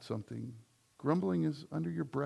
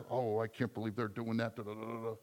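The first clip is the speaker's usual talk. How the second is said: mock grumble; 4 semitones lower, 5 dB quieter than usual. Shown as a demonstration. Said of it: "that wasn't under my breath".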